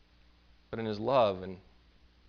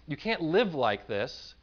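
exasperated urging, pitched up at first; frustrated pleading; 5 semitones higher than usual. Retold or imitated. Preacher acting out his frustrated plea to hoarders on TV, exasperated. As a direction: plead in mock frustration with someone who won't listen. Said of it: "get so frustrated at them and say".

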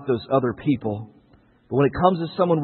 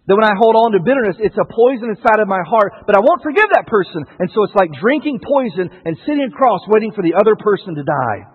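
louder, higher preaching push; 4 semitones higher, 4 dB louder than usual. Real, not acted. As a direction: drive the point home to the church. Preacher presses the point.

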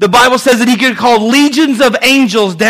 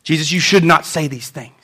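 low, soft scolding; stern, restrained rebuke; hushed reprimand; 6 semitones lower, 5 dB quieter than usual. Acted. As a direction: quietly tell someone off. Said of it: "That's not what reprimand means".

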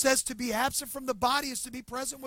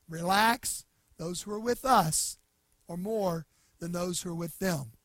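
calm reassurance; 4 semitones lower than usual. Retold or imitated. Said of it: "Elisha's calm".

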